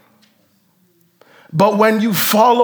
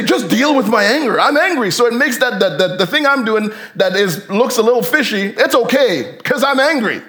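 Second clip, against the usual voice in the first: mock angry excuse; 4 semitones higher than usual. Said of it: "He doesn't just say".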